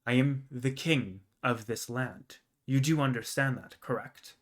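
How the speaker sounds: understated, measured commanding king. Acted. King making his son understand his position, mildly commanding. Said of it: "kind of loud and commanding".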